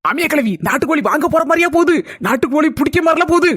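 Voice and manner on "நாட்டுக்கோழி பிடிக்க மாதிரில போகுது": teasing raised voice; mocking shout. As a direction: shout it out to mock her. Mocking shout about mother-in-law.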